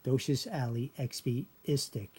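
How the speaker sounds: "istic" as iss-tick, with no L; two-syllable chunks, ending "istic" without an L; L dropped. Shown as a demonstration. Teacher demonstrating the backwards word, chunked with L dropped. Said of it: "So the L is dropped there".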